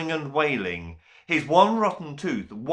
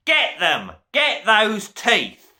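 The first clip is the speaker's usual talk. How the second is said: loud, high command; screaming order; 11 semitones higher, 7 dB louder than usual. A narrator's reading. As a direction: scream at the servants to chase. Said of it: "the Duke screamed".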